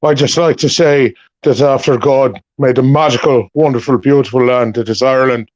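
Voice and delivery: light Irish accent, impression held throughout; Irish lilt, playing the actor; a hint of an Irish Pierce Brosnan accent. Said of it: "Are you sure you're Pierce Brosnan?".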